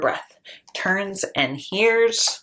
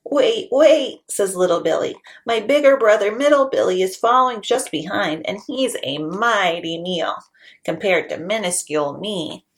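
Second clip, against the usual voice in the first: pleading little goat; 2 semitones higher than usual. Acted. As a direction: beg quickly in a little voice.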